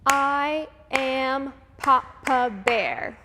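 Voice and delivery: slow, loud, big bear voice; Papa Bear voice. Shown as a demonstration. Teacher demos Papa Bear for the kids, slow and loud. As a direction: boom it out slowly like a big bear. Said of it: "a low-pitched, slow, dark, and rough voice".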